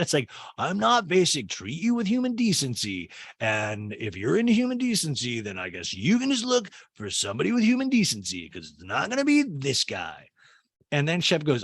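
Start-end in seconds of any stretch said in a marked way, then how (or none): 0.6-10.3 high, swooping mockery of a defensive boyfriend; mock indignation. Host paraphrasing Shep's refusal to change, mock indignant. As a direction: send up his speech in exaggerated high swoops.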